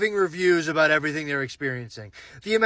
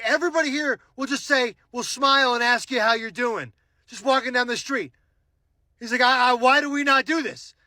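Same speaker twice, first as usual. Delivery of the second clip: put-on French accent; 7 semitones higher than usual. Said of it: "thick French accent".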